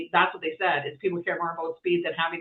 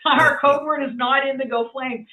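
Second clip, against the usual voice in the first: indignant correction; 7 semitones higher, 4 dB louder than usual. Retold or imitated. Correcting the AI's wrong code.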